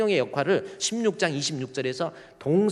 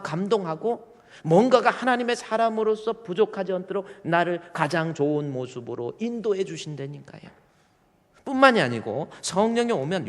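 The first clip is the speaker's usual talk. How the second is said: fervent preaching; 5 semitones higher, 3 dB louder than usual. Real, not acted. Raised pitch preaching.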